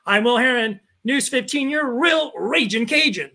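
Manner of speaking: proud hometown anchor catchphrase; TV sign-off. Retold or imitated. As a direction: sign off like a local reporter to camera. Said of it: "When I sign off, I'm like".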